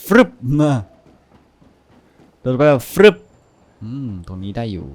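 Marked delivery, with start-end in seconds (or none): 0.0-3.2 whoosh sound effect. Real, not acted. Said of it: "อยากโดดลงไปจังเลย".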